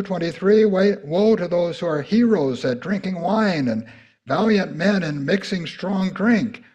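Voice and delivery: loud, ringing preacher's proclamation; forceful scripture reading. Acted. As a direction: thunder the woes out.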